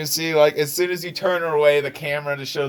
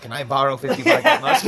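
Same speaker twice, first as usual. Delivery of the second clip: laughing sheepishly. Acted. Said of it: "And he goes".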